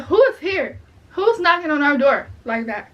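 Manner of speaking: calling out at a knock at one in the morning; alarmed call-out. Retold or imitated. Woken at night, shouting at the door in alarm.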